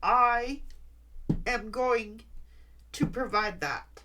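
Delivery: fighting tears, vowing it anyway; real tears under a firm vow; tearful resolve. Real, not acted. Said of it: "Had to pull myself together".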